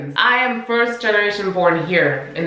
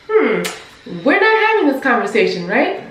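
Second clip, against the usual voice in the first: firm retort; 4 semitones higher than usual. Retold or imitated. Confronting the boss, retold.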